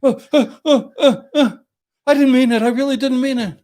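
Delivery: high, stammering plea, hammed up; mock pleading. Client begging the lawyer not to shoot, mock panicked plea. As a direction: whine it like a scared man caught out.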